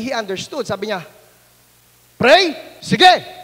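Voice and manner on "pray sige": shouted, higher; loud eager shout. Retold or imitated. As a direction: yell it with glee. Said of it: "lakas ng sigaw niya".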